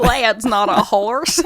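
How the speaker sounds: laughing Australian accent attempt. Shown as a demonstration. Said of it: "how do Australians say not?".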